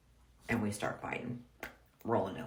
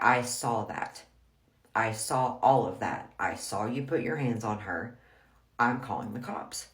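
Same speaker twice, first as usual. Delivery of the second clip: retelling a forceful intervention; neighbor's firm warning; 4 dB louder than usual. Retold or imitated. Neighbor who saw the fight warns husband, emphatic. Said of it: "Our neighbor was like".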